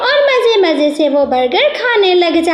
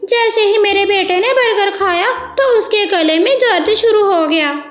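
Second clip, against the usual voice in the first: higher cartoon father voice coaxing his son; a bird dad gently insisting, pitched up; parrot father; 5 semitones higher than usual. Parrot father answers sparrow.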